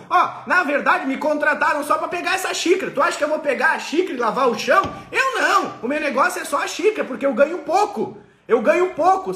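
mock petty underpaid worker; sulky employee. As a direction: refuse anything beyond the cup.

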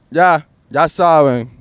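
ordinary delivery

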